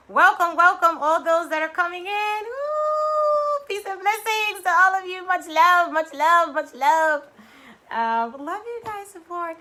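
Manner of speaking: effusive welcome; bright welcome. Real, not acted. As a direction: greet everyone joyfully. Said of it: "greeting arrivals".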